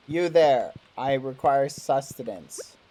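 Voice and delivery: slow, loud lordly demand; pompous noble voice. Pretend. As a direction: command like a haughty lord. Repeats grand demand to NPC.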